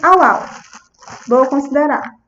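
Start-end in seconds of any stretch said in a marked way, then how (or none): 0.0-0.4 put-on child's "au, au" for a dog; light toddler-style woof; imitated dog bark. Therapist quoting a child naming the dog by its sound, playful bark. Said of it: "Ou ele diz".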